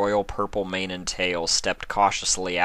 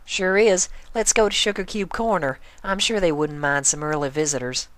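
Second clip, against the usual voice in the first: friendly country pony; 10 semitones higher than usual. Acted. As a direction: holler a cheerful howdy.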